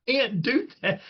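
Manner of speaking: high-pitched mock scolding; Cowher. Imitating coach scolding hurdling running back, high mock scolding. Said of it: "And Cowher's like".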